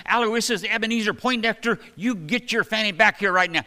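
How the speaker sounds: a mom hollering her kid home, hammed up; mother calling. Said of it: "your mother when she used to call you when you were in trouble".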